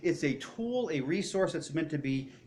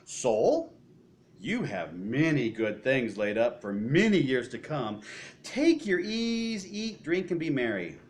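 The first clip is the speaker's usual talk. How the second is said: rich man to his soul; slower than usual. Acted. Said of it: "I will say to my soul".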